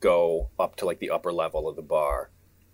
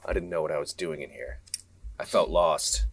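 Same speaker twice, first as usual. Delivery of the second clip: noir monologue; 3 semitones lower than usual. Acted. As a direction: muse it like a noir narrator. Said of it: "And he's like".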